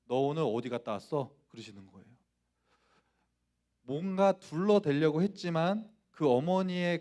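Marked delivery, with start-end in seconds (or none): 0.0-1.3 imitating mother's low, ominous questioning; lowered voice. Mother questions her truant son, voice lowered. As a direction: drop the voice and question him sternly. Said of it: "어머니가 목소리를 깔더니".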